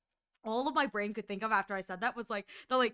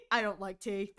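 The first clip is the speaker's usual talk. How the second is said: straight-faced refusal; deadpan brush-off of a pickup line; lower deadpan; 4 semitones lower than usual. Retold or imitated.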